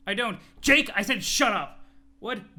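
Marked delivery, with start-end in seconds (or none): 0.6-1.8 firm warning. Acted. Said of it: "Jane fucking snapped".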